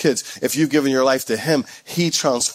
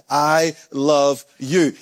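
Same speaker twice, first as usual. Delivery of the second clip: tender Father's voice; much slower than usual. Acted. Voicing the Father's words.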